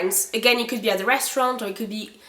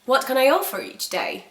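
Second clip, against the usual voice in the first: waiter; 2 semitones higher than usual. Shown as a demonstration. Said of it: "comes to you and says".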